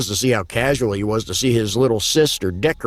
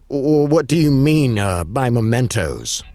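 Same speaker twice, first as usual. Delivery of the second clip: worried. Acted. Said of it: "I said in a worried voice".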